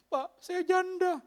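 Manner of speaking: high, slow, whiny self-pity; milk it for sympathy, drawn out; pleading widow. Retold or imitated. Widow begs the RT head for pity, high and slow.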